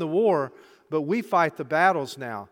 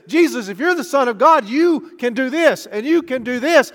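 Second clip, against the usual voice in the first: tempting devil; 4 semitones higher, 6 dB louder than usual. Acted. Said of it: "that spirit would hold up a picture".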